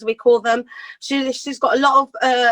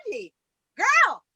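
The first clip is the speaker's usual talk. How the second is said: high, bright American greeting, much higher; American accent; slower than usual. Retold or imitated. Brit mocks how Americans talk, American accent up high. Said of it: "They're like".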